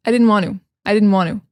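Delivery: "want to" as "wan-oo", no T; casual "didn't want to" with Ts dropped; sentence-ending reduction. Shown as a demonstration. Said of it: "to just end the sentence".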